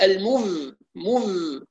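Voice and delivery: المذ with ف turned into a buzzing voiced ذ; wrong voiced fa. Shown as a demonstration. Teacher imitating students who voice the fa. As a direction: show the mistake of a voiced fa in مذ. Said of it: "بعض الناس تقرأ الفاء مجهورة".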